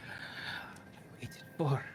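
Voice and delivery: an intense secret finally revealed; the seer whispering what she waited for; frantic, dropping to a whisper. Acted. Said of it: "and she's very frantic".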